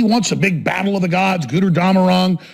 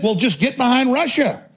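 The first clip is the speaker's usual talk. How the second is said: mimicking pro-Putin people; 3 semitones higher than usual. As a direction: argue it like an indignant supporter, imitated. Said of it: "And so people think".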